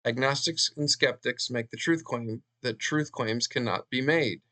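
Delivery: measured re-read, giving each phrase room; slow careful reading. Shown as a demonstration. Lecturer rereading a hard-to-grasp claim for listeners, slow careful reading. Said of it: "I have to read that slowly".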